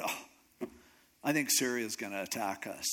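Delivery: soft, breathy groan into a low lament; mock whining and crying. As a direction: moan it quietly, like a despairing king. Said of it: "like, whining and crying and mourning".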